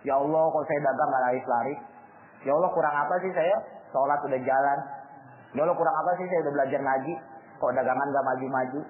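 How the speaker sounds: complaining prayer. Retold or imitated. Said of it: "terus dia ngeluh".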